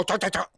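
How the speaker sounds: imitated taunting syllables; short string of mock-language noises; mocking nonsense noise. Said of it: "I don't make that dumb noise".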